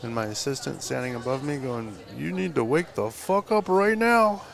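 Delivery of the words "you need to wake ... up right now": high, loud imitation of frantic shouting; urgent wake-up yell. Assistant standing over the sleeping tattooist, urgent yell. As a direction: shout it like rousing someone from sleep.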